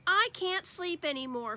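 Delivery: childlike complaint, lightly voiced; Fudge voice. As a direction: read it as a small worried boy. Fudge's voice in read story.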